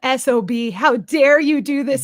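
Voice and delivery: hammed-up indignant yell at the mirror; mock fury at a reflection; mock outrage. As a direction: play the offended mirror dog. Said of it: "stares at the mirror and goes".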